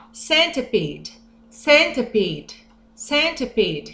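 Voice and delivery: centipede said slowly and clearly; drawn out for the class to repeat; slow model word; slow teaching. Shown as a demonstration. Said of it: "teaching vocabulary slowly".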